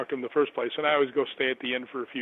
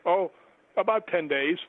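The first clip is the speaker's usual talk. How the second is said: retold reaction, higher with a rising end; dismayed echo; 4 semitones higher than usual. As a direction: echo it back higher, letting it sink in. He echoes her answer in dismay.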